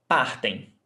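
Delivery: partem stressed on the first syllable, "PAR"; stress before last. Shown as a demonstration. Teacher modelling the "vocês" form, first-syllable stress. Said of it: "Stressed syllable before last".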